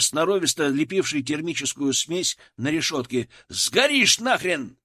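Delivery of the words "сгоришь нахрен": loud, higher, slow rough warning; gruff warning. A narrator's reading. Sapper warning the prisoner off the burning bars. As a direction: spit the warning out. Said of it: "рявкнул сапёр".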